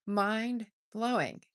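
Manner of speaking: Mind-blowing drawn out slowly, each syllable stretched; slow savoring repeat. Shown as a demonstration. Host echoing her own phrase to live viewers, slowly savored. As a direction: let Mind-blowing linger, slowed right down. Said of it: "that was mind-blowing".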